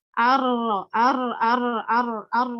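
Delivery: repeated "ar" with a weak, lisped r; "ar" said over and over with a weak r; says w for r. Shown as a demonstration. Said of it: "Saya cadel, jadi agak susah mencontohkan takrir". (mencontohkan "ar" dengan cadel)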